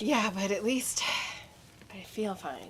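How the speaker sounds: raspy, sick-sounding voice; hoarse voice. Real, not acted. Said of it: "But you sound like you don't".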